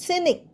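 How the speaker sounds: cynic starting on a plain S, no K; silent C. Shown as a demonstration. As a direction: teach cynic, its SC spelling said as S. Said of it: "সি উচ্চারণ হচ্ছে না".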